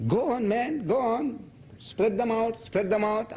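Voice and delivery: high, insistent encouragement; eager high-pitched urging. Acted. Urging people to distribute books.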